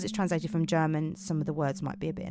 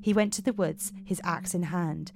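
measured storytelling voice; story narration. Acted. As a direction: tell it like a dark fairy tale. Narrates Romanian fairy tale.

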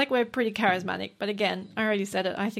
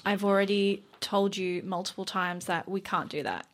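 fed-up customer service; 6 dB quieter, slower than usual. Shown as a demonstration. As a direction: let the voice sink into weary vocal fry. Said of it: "I start to get more down here".

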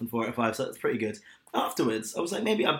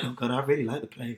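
mock gushing; 3 dB quieter than usual. Mocking friend's embarrassed praise.

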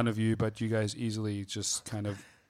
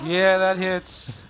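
excited; 8 semitones higher, 10 dB louder, slower than usual. Real, not acted. Excited reaction to a hit.

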